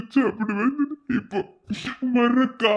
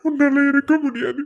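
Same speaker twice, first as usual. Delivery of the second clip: sobbing insistence; tearful plea; crying; 4 dB louder than usual. Acted. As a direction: say it through tears. Pleading with sibling.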